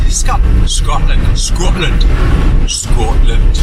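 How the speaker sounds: put-on trying out a Scottish accent word by word; attempted Scottish accent. Vlogger practising for a voiceover business, attempted Scottish accent. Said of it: "develop a Scottish accent".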